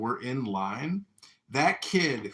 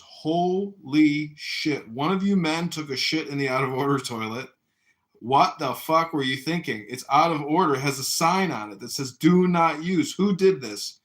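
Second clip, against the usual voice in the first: louder, emphatic sergeant's dressing-down; angry drill sergeant; 3 semitones higher, 6 dB louder than usual. Retold or imitated. Drill sergeant demands a culprit from his men, angry. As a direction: imitate an outraged drill sergeant, hitting key words hard. Sergeant discovers mess, acted tirade.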